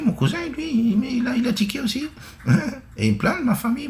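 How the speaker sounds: high, giggling through the words; laughing. Real, not acted. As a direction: laugh while telling it. Laughing while telling about cousin.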